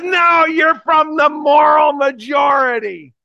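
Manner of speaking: slow, high, loud accusation; accusing shout. Retold or imitated. Heckler accuses the preacher of Moral Majority ties, slow shout. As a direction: hurl the label at him.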